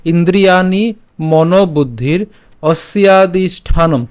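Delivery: slow Sanskrit recital, word by word; careful scripture reading; slow verse recitation. Shown as a demonstration. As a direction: spell out each word for learners. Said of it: "আমি আবার বলছি".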